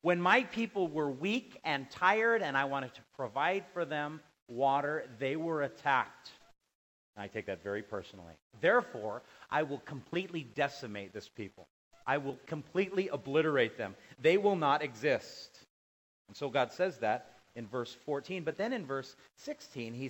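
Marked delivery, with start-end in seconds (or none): 0.0-6.3 loud, raised, slow-ending accusation; indignant divine declaration. Acted. Preacher voices God's wrathful charge. 8.6-15.7 forceful, emphatic pronouncement of judgement; solemn divine vow. Acted. Preacher voices God vowing destruction.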